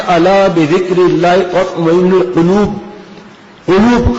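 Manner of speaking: slow Quranic recitation, back-of-throat qaf in القلوب; correct qaf. Shown as a demonstration. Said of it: "قاف یہاں سے ادا کیا".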